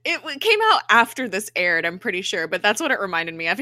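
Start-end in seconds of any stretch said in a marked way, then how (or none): none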